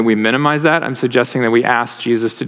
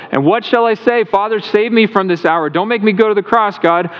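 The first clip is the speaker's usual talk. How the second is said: anguished prayer; 6 semitones higher than usual. Retold or imitated. Jesus praying in Gethsemane.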